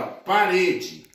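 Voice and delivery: "parede" slowly, leaning on "re"; stress on second syllable. Shown as a demonstration. Teacher showing students the tonic syllable, stressed "re" in "parede". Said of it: "sílaba tônica re".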